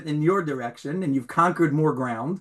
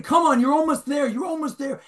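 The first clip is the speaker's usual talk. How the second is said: screaming coach; 9 semitones higher than usual. Retold or imitated. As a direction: shout him toward the finish, then ease off. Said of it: "screaming at him".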